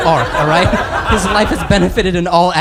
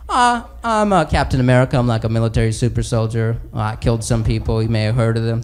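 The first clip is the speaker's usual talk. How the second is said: dopey Captain America; 6 semitones lower than usual. Acted. Captain America voiced, low.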